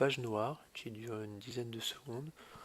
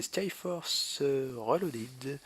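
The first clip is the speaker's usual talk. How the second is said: hammed-up English accent on the game title; French speaker's playful English accent; 2 semitones higher, much slower than usual. Shown as a demonstration. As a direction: show off a mock-proud English accent, drawing it out slowly. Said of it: "avec mon super accent anglais".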